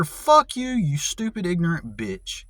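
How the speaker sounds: sudden high furious outburst; angry rant. Real, not acted. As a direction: spit it out at them. Ranting at the advice givers.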